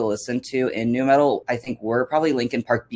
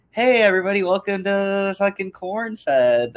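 podcast intro voice; 9 semitones higher than usual. Pretend. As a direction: ham up the show opener. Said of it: "Just be like".

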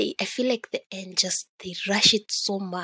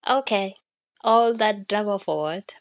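louder, fed-up okay; indignant okay; 7 dB louder than usual. Retold or imitated. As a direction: protest the ending with a louder okay. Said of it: "I was just like".

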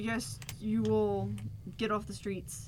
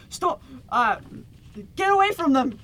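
loud, higher barked command to halt; guard shouting stop; 5 semitones higher, 10 dB louder than usual. Acted. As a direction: shout them down like a wary guard captain. GM voices guard halting party.

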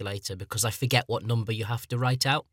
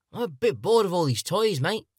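higher-pitched, lightly voiced teenager; teenage boy; 7 semitones higher than usual. Teenager tells Japan he is bored, lightly mocked teen voice. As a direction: complain like a teen who has outgrown things. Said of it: "you get a little bit older".

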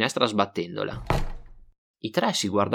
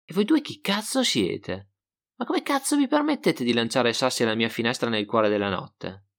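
indignant exclamation. Acted. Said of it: "poi esclamò ad alta voce".

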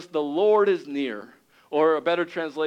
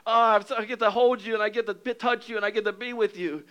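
overjoyed Jesus; 7 semitones higher than usual. Acted. Jesus welcoming you home, a high joyful shout. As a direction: burst out with joy, then settle into tender love. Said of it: "And Jesus is so excited to see you".

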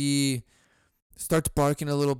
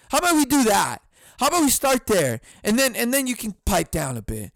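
pretend yelling back; 4 semitones higher than usual. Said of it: "I could see myself yelling back".

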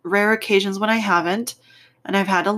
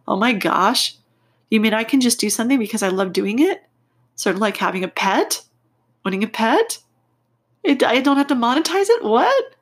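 excited; 3 semitones higher, faster than usual. Retold or imitated. Inner child thrilled by article.

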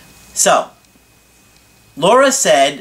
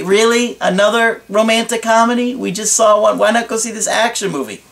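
higher, incredulous brush-off; dismissive scoff; 6 semitones higher than usual. Retold or imitated. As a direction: scoff at the romantic comedy idea. Acted dismissive reply to partner.

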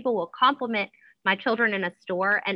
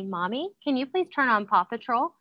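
put-on higher, polite little-kid asking; sweet child request; 4 semitones higher, 3 dB quieter than usual. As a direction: ask mommy sweetly, lilting up at the end. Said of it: "if he says sweetly".

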